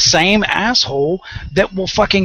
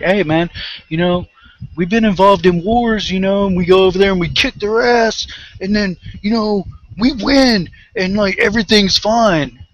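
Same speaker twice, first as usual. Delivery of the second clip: mocking war supporters; 5 semitones higher than usual. Mocking pro-war people's voice.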